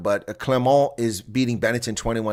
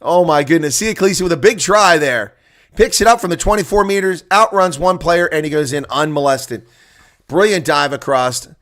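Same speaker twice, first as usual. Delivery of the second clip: louder, higher rugby commentary on a try; excited play-by-play; 5 semitones higher, 6 dB louder than usual. Acted. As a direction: call the try like a live commentator thrilled by the run. Calls a try live.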